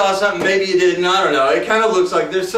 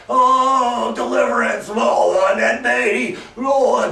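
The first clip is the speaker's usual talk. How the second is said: mock drunk lament; 4 semitones higher, much slower than usual. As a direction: wail it like a sad drunk deputy. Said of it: "he's like".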